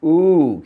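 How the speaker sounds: put-on a loud drawn-out oo for kids to copy; modelled oo sound. Shown as a demonstration. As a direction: sing out a clear oo. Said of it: "Can you say oo?".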